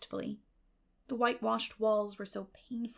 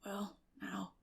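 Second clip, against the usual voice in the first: whispered, shy; gentle mumble; 5 dB quieter than usual. Acted. Matthew to Marilla, softly defending Anne. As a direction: murmur it gently.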